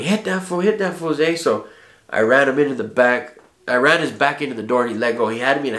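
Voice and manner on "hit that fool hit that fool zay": retold yell. Homie Kelly yelling to his friend in a fight, retold yell. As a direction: imitate a homie egging on a fight, pitch jumped up. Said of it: "he was yelling".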